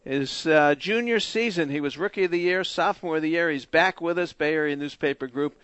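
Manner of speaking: upbeat announcer read of what's next; radio break read. Acted. Host teasing the next guest to listeners, announcer read.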